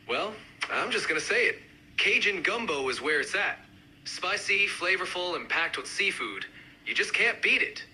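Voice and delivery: lightly done Cajun accent. Shown as a demonstration. Gumbo fan speaking up, mild Cajun accent. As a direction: give it a hint of Cajun. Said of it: "each accent, uh, represented by a speaker".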